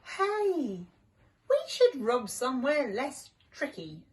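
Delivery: high, eager call; excited cry. Acted. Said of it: "Sam cried".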